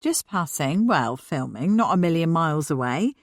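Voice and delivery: talking through a mouthful; words round a bite of food; mouth full. Acted. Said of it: "he managed through a full mouth".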